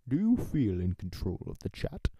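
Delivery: a light Gary Oldman impression; lightly voiced film-actor voice; a hint of Gary Oldman. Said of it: "go for Gary Oldman".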